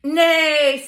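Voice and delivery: loud, high, drawn-out neigh; playful horse call for kids. Acted. Voicing the horse.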